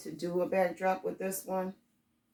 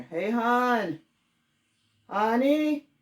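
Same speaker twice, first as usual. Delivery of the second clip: calling out; 9 semitones higher, 9 dB louder, much slower than usual. Real, not acted. Calling husband in other room.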